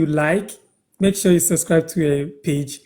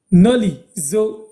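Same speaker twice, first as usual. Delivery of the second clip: slow example; 3 semitones higher, slower than usual. Shown as a demonstration. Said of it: "meaning Noli, come".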